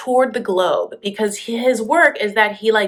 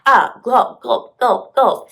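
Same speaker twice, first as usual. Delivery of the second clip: higher, louder hammed-up clumsy small talk; mock broken-English chat; 4 semitones higher, 5 dB louder, slower than usual. Couple who can't talk to each other, loud mock exchange. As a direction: act out two people with no shared words, loudly. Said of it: "I'll tell you exactly how they talked".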